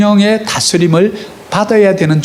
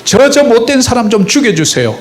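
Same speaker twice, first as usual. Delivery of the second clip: mock lament prayer; 6 semitones higher than usual. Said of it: "탄식 가운데".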